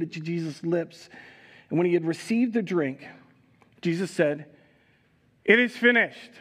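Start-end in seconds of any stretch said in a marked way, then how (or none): 5.4-6.3 loud, raised final declaration; crying out. Acted. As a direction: proclaim it high and loud, with finality. Acted last cry of Jesus.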